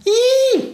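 very high, loud mouse squeal; shrieked mouse yelp. A narrator's reading. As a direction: let out a piercing little squeak. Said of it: "quiekt die Maus".

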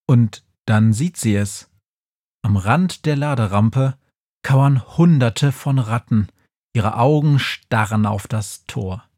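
ordinary delivery, nothing marked

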